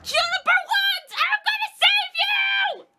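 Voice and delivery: high, loud, slow heroic shout; cartoonish hero voice. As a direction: yell it like an over-the-top hero. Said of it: "That voice is gonna kill me".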